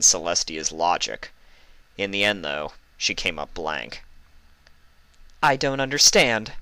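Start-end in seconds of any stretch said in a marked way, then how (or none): 5.4-6.5 higher, frustrated admission; admitting. A narrator's reading. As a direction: concede it, puzzled. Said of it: "she admitted finally".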